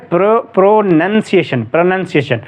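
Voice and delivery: "प्रोनंसिएशन" sounded out with "nun", no OW glide; correct pronunciation. Shown as a demonstration. Teacher fixing students' error, प्रोनंसिएशन sounded out with "nun". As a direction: break off प्रो, then say प्रोनंसिएशन with "nun". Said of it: "इसको गलत पढ़ते हैं".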